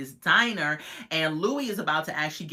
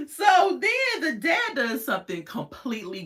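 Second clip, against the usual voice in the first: excited buildup; 8 semitones higher, 4 dB louder than usual. Real, not acted. Building to a gross moment.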